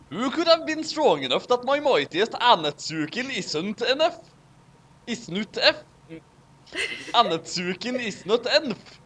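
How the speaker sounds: light put-on Norwegian accent. Reader tries a Norwegian accent for Odin on request. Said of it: "make Odin sound Norwegian".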